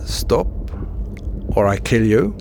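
half-hearted retold command shout. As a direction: echo the guard's shouted threat lightly. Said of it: "kom etter meg en gang og ropte".

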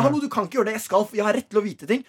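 mock insistence, voice lifted high. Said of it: "Jeg begynner å heve stemmen min".

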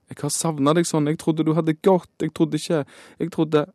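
put-on tearful young girl. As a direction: play the girl blurting it out through tears. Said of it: "hikster hun".

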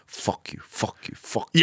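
slow, whispered angry swearing; hissed angry insult. Retold or imitated. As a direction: hiss it at the joker. Scammer angry at irony.

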